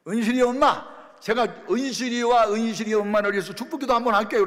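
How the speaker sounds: kill her anger with kindness; earnest offer. Retold or imitated. Pastor offers to bless the angry mother, high loud sweet plea.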